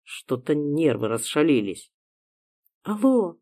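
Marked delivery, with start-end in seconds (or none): 2.8-3.4 sleepy mumble. Acted. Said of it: "сонным голосом пробормотала".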